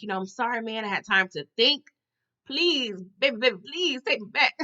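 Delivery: mock pleading, breaking toward a whimper; grovelling. Franklin begging to be taken back, mock grovelling. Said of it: "he pretty much grovels".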